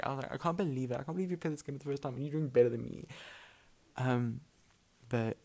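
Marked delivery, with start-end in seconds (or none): 0.3-3.1 imitating her old furious self, fast and a bit louder; mock angry rant. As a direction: rush through the disbelief like a sore loser. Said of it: "I mean so angry".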